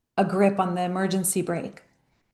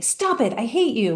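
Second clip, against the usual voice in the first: put-on scolding inner child; 3 semitones higher than usual. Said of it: "smacking the hand of that inner child and saying".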